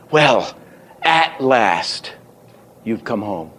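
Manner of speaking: "at last" held up, "you've come home" dropping away; big accent. Shown as a demonstration. Teacher trying another reading, big accent on "at last". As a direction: lift "at last", then let the rest fall. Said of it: "there's your big accent".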